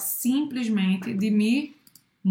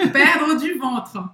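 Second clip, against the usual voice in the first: laughing; 4 semitones higher, 5 dB louder, much slower than usual. Real, not acted. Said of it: "laughing close".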